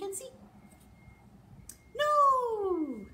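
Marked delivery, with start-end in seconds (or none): 2.0-3.1 loud high no!; big surprised no; excited no. Acted. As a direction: shout it out for the reveal. Lift the flap reveal.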